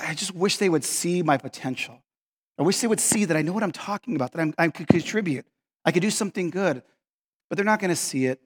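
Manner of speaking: soft, subdued wishing; quiet frustration. Acted. Overlooked worker wishing they saw his potential, quietly frustrated. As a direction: confide it with understated frustration. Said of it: "you get so frustrated".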